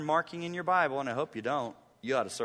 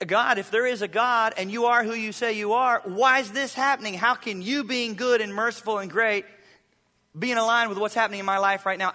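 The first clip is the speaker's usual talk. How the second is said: higher, louder pleading questions to God; troubled believer; 6 semitones higher, 6 dB louder than usual. Retold or imitated. Pastor voicing a suffering believer's doubt, anguished pleading. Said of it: "you couldn't help but think".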